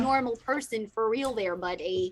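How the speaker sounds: put-on Canadian accent; stereotyped Canadian. Imitating Canadians talking to everyone else, hammed-up Canadian accent. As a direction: lay on an easygoing Canadian lilt. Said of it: "when they talk to everyone else".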